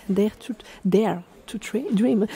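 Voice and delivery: French-accented English. Real, not acted. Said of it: "Désolée pour mon anglais".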